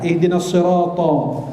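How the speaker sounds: sirata slow, ending in a rounded "to"; thick ta. Shown as a demonstration. Preacher modelling the verse, sirata with thick ta. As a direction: draw out sirata with a dark emphatic t. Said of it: "Ta tebal".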